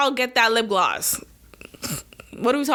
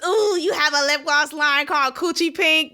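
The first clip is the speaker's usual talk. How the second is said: mock scandalized voice; 4 semitones higher than usual. Mocking critics of lip gloss.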